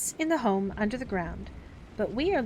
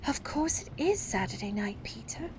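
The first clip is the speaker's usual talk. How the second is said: relenting. Acted. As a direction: give in gently.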